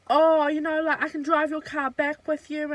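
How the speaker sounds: a lightly voiced cocky drunk guy; mock drunk guy. Drunk fling offering to drive her car, mock breezy.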